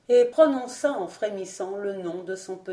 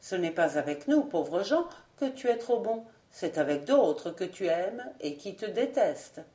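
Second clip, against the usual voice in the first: gentle and melancholy. Acted. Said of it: "dit-il d'une voix douce et mélancolique".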